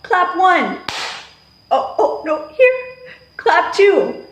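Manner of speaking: playful teacher call. Shown as a demonstration. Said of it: "I'll do the wrong movement".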